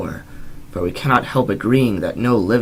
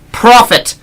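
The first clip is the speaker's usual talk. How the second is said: very high, loud accusing shout; frantic cry; 13 dB louder than usual. Acted. Narrator accusing the raven, frantic high shout. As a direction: hurl the word at the bird.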